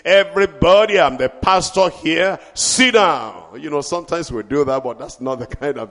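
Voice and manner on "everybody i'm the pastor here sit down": aggressive pastor. Retold or imitated. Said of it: "aggressive nature".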